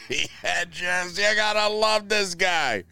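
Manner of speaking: high-pitched giggly gush; laughing through words. Real, not acted. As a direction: crack up while saying it. Laughs while talking about Trump.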